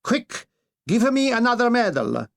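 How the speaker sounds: a cowardly dictator grabbing for glory; panicky Italian Mussolini. Acted.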